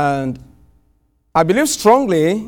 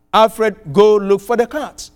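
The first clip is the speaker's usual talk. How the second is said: firm, slightly raised order; retold command; 3 semitones higher, 3 dB louder than usual. Host commands the preacher to find the cat, firm mock order. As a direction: bark it as a command, half-mocking. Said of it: "he issues the command".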